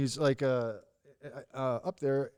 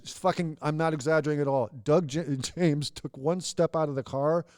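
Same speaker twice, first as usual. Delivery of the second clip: normal talking voice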